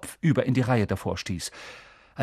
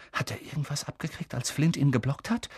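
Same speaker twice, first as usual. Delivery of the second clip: whisper; 6 dB quieter than usual. Acted. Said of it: "flüsterte Seamus".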